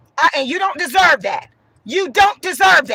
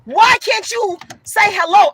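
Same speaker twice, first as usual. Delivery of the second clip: loud rant. Real, not acted. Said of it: "I'm yelling right now. I'm talking loud right now".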